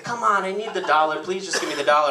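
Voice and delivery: imitating a pleading kid; mock desperate plea; begging. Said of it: "he starts begging me".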